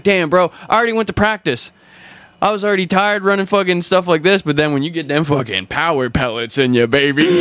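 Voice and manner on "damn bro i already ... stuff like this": mock complaining. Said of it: "And it's like".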